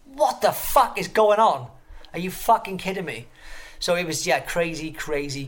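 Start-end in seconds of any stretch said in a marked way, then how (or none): 0.1-3.3 stunned disbelief. Retold or imitated. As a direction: act out being stunned and baffled. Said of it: "And I'm like".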